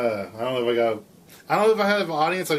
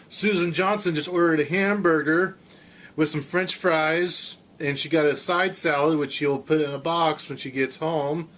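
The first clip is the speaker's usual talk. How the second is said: radio announcer. Shown as a demonstration. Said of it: "Yes, I can do this. I announce your order".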